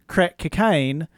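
slow New Zealand vowels; New Zealand accent. Shown as a demonstration. Co-host shows how the phrase comes out, New Zealand accent. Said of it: "in a New Zealand accent, it comes out".

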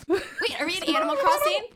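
sped-up squeaky reversed speech; fast, high garbled gibberish; played backwards. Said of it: "That's exactly what backwards talking sounds like".

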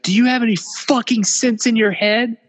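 high, mock yelling woman; hammed-up scolding shriek; mock scream. Pat yelling at Matt from the car door, in a high mock scream. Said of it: "and she's screaming at Matt".

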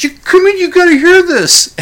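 very high, loud excited call; mock thrilled fan yelling to the pizza guy; excited shout. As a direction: drag him in, bursting with joy.

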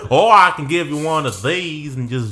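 put-on Southern voice, dropped down; Southern accent. Comedian shows another voice on offer, a dropped Southern accent. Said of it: "third friend from the South".

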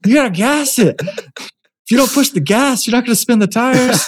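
high shout over a revving engine. Retold or imitated. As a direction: yell it over the motor noise. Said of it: "I gotta talk over the engine".

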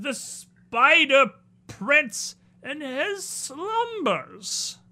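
high, slow, haughty spider lord; spider prince voice. Acted. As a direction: demand answers from your throne, slowly.

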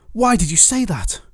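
high, exasperated burst of disbelief; outburst. A narrator's reading. Rhiannon challenges Poik over his promise, bursting out. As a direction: demand it, pitch leaping up. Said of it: "burst out Rhiannon".

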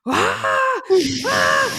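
shrill high yelps of fright, loud; imitated ride scream. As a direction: scream like the ride just dropped. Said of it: "hearing you go".

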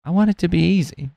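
George. Retold or imitated. Answering his friend in a retold scene, mock George voice. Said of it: "And he's like".

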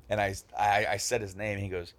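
ordinary talk

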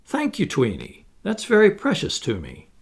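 lightly touched and pleased; gratified. A narrator's reading. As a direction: thank her, a little moved.

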